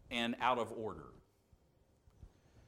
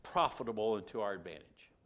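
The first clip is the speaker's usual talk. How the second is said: mock justification; 3 dB louder than usual. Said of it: "turn around and say".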